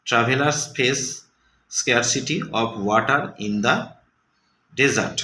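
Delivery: slow, deliberate sentence; slow reading aloud. Shown as a demonstration. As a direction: read it slowly for the class. Teacher reading example. (ধীরে পড়া)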